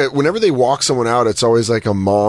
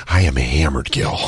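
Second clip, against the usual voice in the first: put-on much lower sloppy drunk voice; drunk confession; 10 semitones lower than usual. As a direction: drop low like you're hammered. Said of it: "And I'm like".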